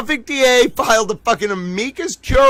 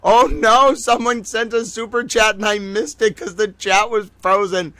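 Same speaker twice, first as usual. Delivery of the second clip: surprised; 3 semitones higher than usual. Real, not acted. Discovers missed super chat.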